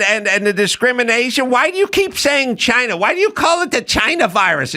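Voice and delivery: high, hammed-up indignant lecture; mock scolding woman. Mocking congresswoman lecturing about China virus, high. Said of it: "she's going".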